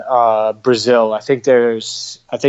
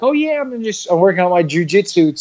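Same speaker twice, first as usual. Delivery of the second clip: put-on much higher, chirpy valley-girl voice; mock a peppy American girl, pitched way up; mocking Arizona white girl; 4 semitones higher than usual. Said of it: "really, like".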